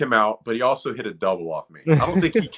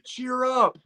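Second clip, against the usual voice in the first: mock yell; 13 semitones higher than usual. Teammates yelling at a giggling baserunner, high mock yell. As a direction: imitate a yell without the volume. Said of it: "They're yelling at me".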